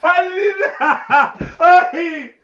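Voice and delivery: very high, excited shrieks of disbelief; real astonished yelling. Real, not acted. Streamer stunned by the friend's right guess, high astonished yelling. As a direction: yell out in amazement, voice shooting up.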